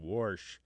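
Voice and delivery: "Warsh" said as "worsh", R before the sh. Shown as a demonstration. Host repeating the caller's word, intrusive-R pronunciation.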